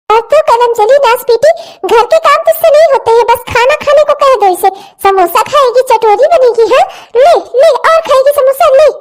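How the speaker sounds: furious mother punishing daughter; angry stepmother. Acted. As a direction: taunt her while hitting. Stepmother beating the girl.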